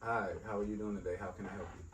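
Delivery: polite and welcoming. Shown as a demonstration. Demonstrating how he answers work calls, polite. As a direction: greet the caller gently and politely. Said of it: "it's polite and welcome".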